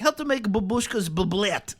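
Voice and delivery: slow mock Russian accent; Life of Boris. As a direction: imitate a Russian cooking host, drawn out. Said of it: "Life of Boris or something like that".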